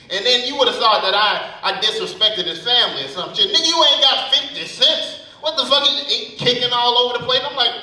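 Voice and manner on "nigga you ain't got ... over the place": lightly voiced old man, a bit higher and huffy; an offended hustler scolding; indignant old man. Old man scolds the comedian for refusing, indignant.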